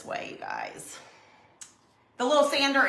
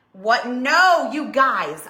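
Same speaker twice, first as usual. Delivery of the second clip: louder, quick surprised protest; startled denial; 3 semitones higher, 6 dB louder, much slower than usual. Real, not acted. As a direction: catch yourself, then deny with a laugh. Reacting to a guess in chat.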